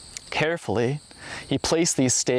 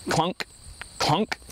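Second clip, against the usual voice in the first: knife clunking on stone; 4 semitones higher than usual. A narrator's reading. Narrator voices the knife striking empty stone, mock clunks. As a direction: tap out the knife hitting bare stone. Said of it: "the sound of his knife hitting empty stone".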